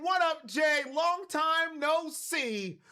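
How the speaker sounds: 1 excited greeting. Real, not acted. Greeting viewer on stream.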